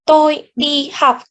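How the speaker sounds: "Tôi đi học" with every syllable the same length, like Vietnamese; each syllable of "Tôi đi học" evenly timed; even syllable timing. Shown as a demonstration. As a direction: give "Tôi", "đi", "học" equal, steady beats. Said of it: "had the same length".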